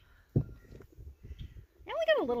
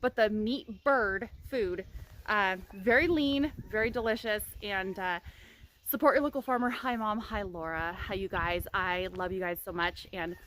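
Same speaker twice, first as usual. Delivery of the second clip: talking through a retainer; slightly lisped retainer speech; wearing a retainer. Real, not acted. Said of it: "I'm not gonna be wearing this retainer anymore".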